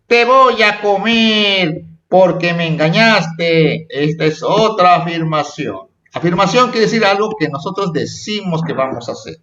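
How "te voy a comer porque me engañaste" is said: slow, drawn-out storybook threat; amenaza de personaje. Acted. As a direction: act out the accusing character's line, stretching the words. (amenaza de cuento, lenta y alargada)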